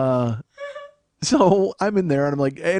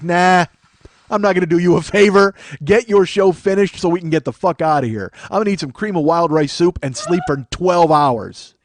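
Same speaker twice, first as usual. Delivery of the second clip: raised, emphatic retold refusal; stubborn refusal; 2 semitones higher, 5 dB louder than usual. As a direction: dig in and refuse the favor. Acting out his refusal to hosts.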